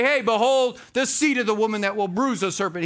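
loud, high and fast announcement; mock grand proclamation. Preacher mocking what John didn't say, loud fast proclamation. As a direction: rattle it off like a herald. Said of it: "He didn't say".

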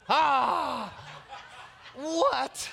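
high, loud startled yelp with a laugh; a hammed-up shocked cry; loud mock outrage at the remark; shocked outcry. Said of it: "I lost my attitude".

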